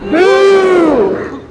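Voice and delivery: playful boo for the crowd; leading boo. Shown as a demonstration. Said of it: "Can we try that?".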